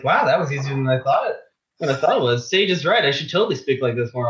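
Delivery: mock mentor speech; a light send-up of how her mentor talks; playful imitation of a mentor; imitating Sage's voice. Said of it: "He talks like that all the time".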